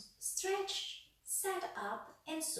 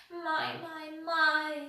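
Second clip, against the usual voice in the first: gently; 8 semitones higher, 10 dB louder, slower than usual. A narrator's reading. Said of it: "said the tramp gently".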